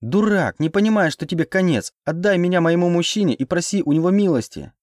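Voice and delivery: high-pitched urgent berating; heated cry, pitched well up; outraged yelling. A narrator's reading. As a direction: berate him and demand release. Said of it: "завопила я".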